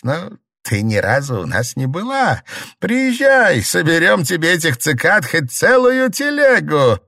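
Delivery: a simple country granny giving folk wisdom; old village woman. A narrator's reading. Old Liu advising the sick mistress, earnest.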